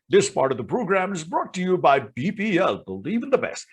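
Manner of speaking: light imitation of an old radio sponsor line; imitating ad announcer. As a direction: play the ad voice you copied as a kid. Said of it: "I started to imitate".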